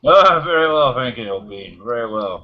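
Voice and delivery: posh British voice; posh British accent. Pretend. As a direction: answer like a posh English gentleman. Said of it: "You were just so perfect there".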